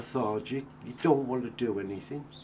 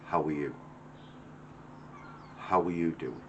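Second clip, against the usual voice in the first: genuine concern; 7 semitones lower, 7 dB quieter than usual. Retold or imitated. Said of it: "genuine people that come out".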